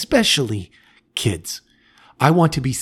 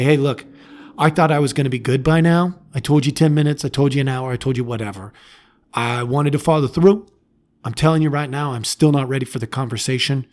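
honest parent; faster than usual. Shown as a demonstration. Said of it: "You come back and say".

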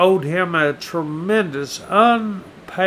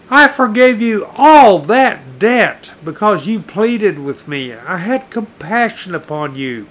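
angry king; 2 semitones higher, 4 dB louder than usual. Acted. King rebuking wicked slave.

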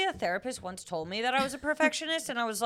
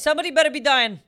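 indignant; 7 dB louder, faster than usual. Real, not acted. Ranting at rude customers.

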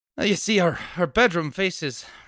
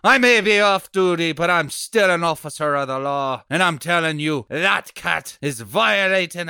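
raised voice, asserting authority; firm loud protest; 5 dB louder than usual. Acted. Off-duty policeman warns the man pulling at him, firm and loud. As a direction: pull rank loudly. Policeman resists being pushed out.

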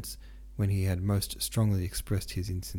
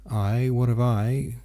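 stammering; 3 semitones higher, 5 dB louder, slower than usual. Acted. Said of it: "stammered Pierre".

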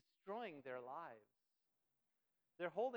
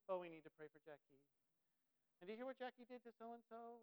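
sneaky pious gossip; 2 semitones higher than usual. Acted. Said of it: "We're really sneaky at doing that in a godly way".

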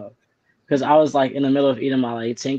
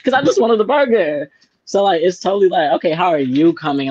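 heated rant; 5 semitones higher, 4 dB louder than usual. Real, not acted. Heated rant about rude worker.

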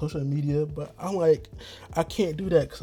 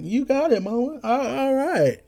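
much higher voice, meek agreement; high squeaky yes-mama; 12 semitones higher, slower than usual. Retold or imitated. Answering his mama's advice, a high meek squeak. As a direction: squeak it up like a boy obeying mom.

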